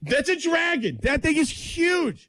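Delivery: high, slowed, hammed-up panic; mock alarm. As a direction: play up the terror of a monster fish. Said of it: "I'm like".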